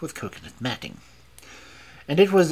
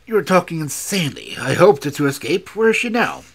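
loud, raised-pitch protest; crying out; 4 semitones higher, 8 dB louder than usual. A narrator's reading. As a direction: hurl the denial out, ending high. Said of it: "he cried".

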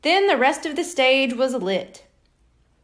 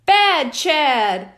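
yelled; 2 semitones higher, 4 dB louder than usual. Acted. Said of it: "one of his buddies yelled".

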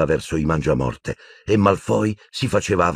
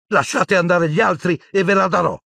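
high, urgent cry; acted shout of desperation; desperate shout; 12 semitones higher, 3 dB louder than usual. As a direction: plead at a high pitch, desperately. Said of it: "urlò disperato Harry".

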